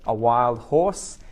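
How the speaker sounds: A wild horse, spelled out slowly for learners; slow down and lean on horse; careful classroom model phrase; slow teaching emphasis. Shown as a demonstration. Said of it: "is a brumby".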